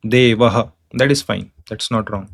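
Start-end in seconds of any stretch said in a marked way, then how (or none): 0.0-0.7 Devaha with a clear final ha; Devaha, echoing the a after h; visarga with echoed vowel. Shown as a demonstration. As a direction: let Devaha end on ha. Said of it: "prolong it little bit as per the vowel".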